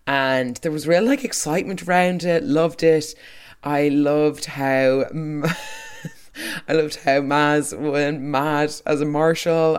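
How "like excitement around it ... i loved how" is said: ordinary talk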